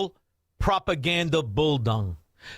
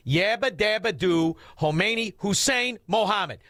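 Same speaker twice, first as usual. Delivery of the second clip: mock announcer; 4 semitones higher than usual. Repeats mock name louder.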